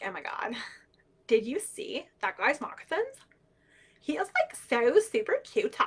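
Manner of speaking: a hint of a teen with a crush; teenage girls. Teenage girls talking about their crushes, lightly mimicked gushing. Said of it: "teenage girls would be off".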